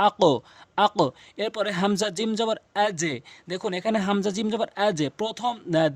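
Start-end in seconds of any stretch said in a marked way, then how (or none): 0.1-1.0 আক echoed as a rounded "aqo"; upward qalqalah. Shown as a demonstration. Teacher modelling qof for learners, upward bounce on আক. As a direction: release the q of আক into a heavy "o" bounce. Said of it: "উপরের দিকে sound করে উচ্চারণ করছি".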